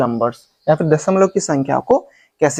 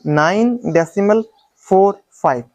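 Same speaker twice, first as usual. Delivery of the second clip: फ़ोर, फ़ाइव as separate digits; correct reading demo; 2 semitones higher than usual. Shown as a demonstration. Teacher reading in English for students, digit-by-digit reading. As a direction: give फ़ोर and फ़ाइव a beat each. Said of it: "अब English में पढ़ता हूं".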